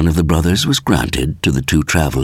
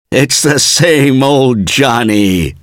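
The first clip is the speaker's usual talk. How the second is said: high, loud, slow, delighted cry; joyful; 9 semitones higher, 5 dB louder, slower than usual. Acted. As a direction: burst out in glad recognition of an old friend. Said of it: "said Gilliam joyfully".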